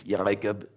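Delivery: JACOB with a throaty roll in the middle; rolled ayin. Shown as a demonstration. Showing the ayin in a name, throaty roll. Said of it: "rolling thunderous sound in the back of your throat".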